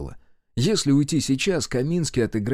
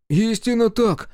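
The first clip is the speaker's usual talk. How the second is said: very high, drawn-out gleeful agreement; delighted; 12 semitones higher, 4 dB louder, slower than usual. A narrator's reading. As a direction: agree eagerly in a high, slow voice. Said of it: "обрадовался Аверкин". (обрадованно, высоко и протяжно)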